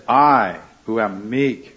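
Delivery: a touch of irony on "meek"; sarcastic. Retold or imitated. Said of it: "He's being sarcastic partly".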